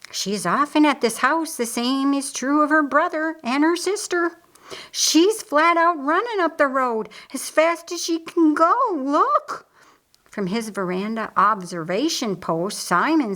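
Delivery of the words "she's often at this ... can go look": put-on higher, urgent young woman's voice; a girl pointing out something alarming; lightly voiced urgent young servant; excited servant girl. Narrator voices Hannah excited.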